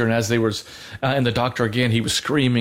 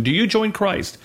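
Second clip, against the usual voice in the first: higher, lightly voiced priest asking again; repeated rite question; 8 semitones higher than usual. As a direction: ask it once more from the rite, pitched up. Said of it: "they would ask a question again".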